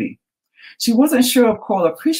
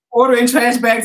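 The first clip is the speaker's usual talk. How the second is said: imitating Alexa; 9 semitones higher, 5 dB louder than usual. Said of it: "my Alexa said".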